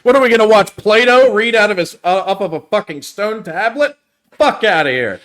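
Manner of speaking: loud, high-pitched hammed-up rant; mock outrage. Studio boss rejecting the philosopher title, hammed-up outrage. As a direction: tear into the idea as an appalled exec.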